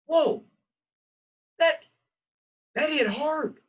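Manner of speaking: sudden high, loud whoa; a startled, high exclamation; surprised whoa. Real, not acted. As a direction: caught off guard by the joke. Reacting to the friends' joke.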